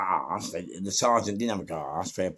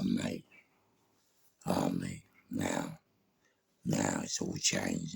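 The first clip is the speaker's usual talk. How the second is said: low hushed tone; 13 semitones lower, 7 dB quieter than usual. Real, not acted. Low confiding retelling.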